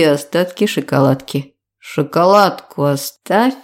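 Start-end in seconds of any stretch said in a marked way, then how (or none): 1.8-3.5 put-on tongue-tied drunk demand; drunk slur. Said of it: "заплетающимся языком требую я".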